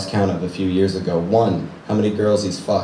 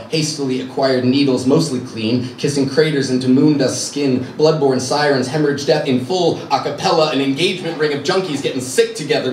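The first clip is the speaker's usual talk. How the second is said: mounting intensity; 4 semitones higher than usual. Acted. Mounting litany of dreaded sights.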